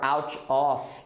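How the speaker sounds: "out of" unlinked, ending in F; Brazilian mistake. Shown as a demonstration. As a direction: say "out off" as separate words. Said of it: "I hear many Brazilians saying".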